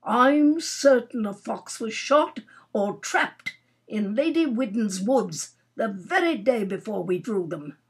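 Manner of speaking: lightly voiced grumbling Major; moody. Major complaining of blank hunting days, moody. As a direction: air a grievance, stressing key words. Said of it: "said the Major moodily".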